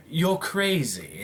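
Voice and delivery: slow, lightly acted lion villain; a hint of character, drawn out; lightly voiced Scar. Scar brushing off Cruella, lightly voiced and slow. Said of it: "he's all like".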